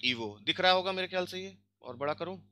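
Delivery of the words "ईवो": ईवो said with v, not g; read with v. Shown as a demonstration. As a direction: pronounce the middle of ईवो as v. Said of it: "पढ़ते हैं". (ईवो में व की आवाज़)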